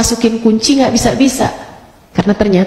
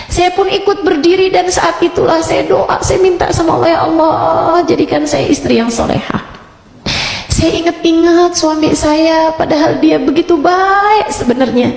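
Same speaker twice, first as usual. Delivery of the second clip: higher-pitched emotional pleading; retold remorseful prayer; 6 semitones higher than usual. Wife praying to be a good wife, retold with feeling. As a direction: plead with raised pitch, stretching key words.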